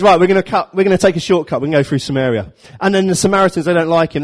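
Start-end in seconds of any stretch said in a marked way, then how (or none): 0.0-2.5 loud, brisk leader announcing a shortcut; rally the group with a loud decision; decisive call. Acted. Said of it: "so Jesus goes".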